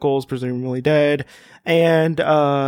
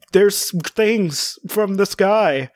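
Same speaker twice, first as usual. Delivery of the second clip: alarmed hero quote; 5 semitones higher, much slower than usual. Acted. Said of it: "Is just like".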